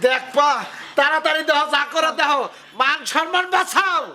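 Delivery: worked-up yell, pitch climbing slightly; agitated yelling. Acted. Husband urges wife to save his honour, agitated yelling. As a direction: urge frantically, without much extra volume. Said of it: "তুমি চিকরাইও না".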